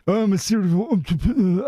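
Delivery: smug self-important entrepreneur; lightly mock a pompous businessman. Mocking a pompous self-styled serial entrepreneur. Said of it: "you're sounding pompous".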